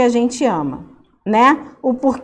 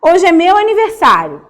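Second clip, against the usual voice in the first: reading the balloon line; 5 semitones higher, 4 dB louder than usual. Shown as a demonstration. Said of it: "E aí tem lá embaixo".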